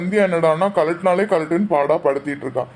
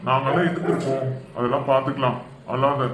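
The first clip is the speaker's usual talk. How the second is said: low, gentle consoling; reassuring; 4 semitones lower than usual. Acted. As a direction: comfort someone who is crying. Consoling a crying girl. (ஆறுதலாக, தாழ்ந்த குரலில் தேற்றி)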